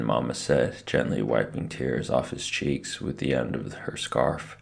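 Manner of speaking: ordinary delivery, nothing marked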